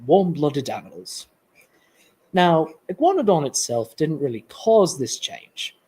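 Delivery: British accent, presenting to an audience. Shown as a demonstration. Presenter retrying after teasing about sounding Australian, put-on British accent. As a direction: carry on the lecture in British. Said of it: "I can do British".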